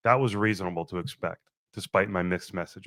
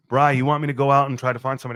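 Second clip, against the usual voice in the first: eager buddy offer; 3 semitones higher, 5 dB louder, much faster than usual. Retold or imitated. Friend Lewis offering help.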